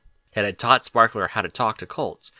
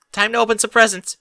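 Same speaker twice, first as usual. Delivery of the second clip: cheerful Derpy; 11 semitones higher, 7 dB louder than usual. Acted. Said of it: "Derpy said".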